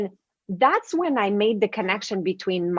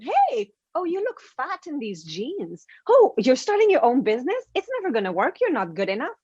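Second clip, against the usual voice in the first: pitched-up, sneering put-downs, swooping high on the first word; mock mean friend; 5 semitones higher than usual. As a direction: play the catty friend who cuts you down.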